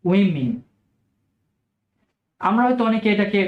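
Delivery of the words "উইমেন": উইমেন said as WIM-in; correct pronunciation. Shown as a demonstration. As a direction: clear demo of উইমেন. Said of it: "এটির plural form হচ্ছে".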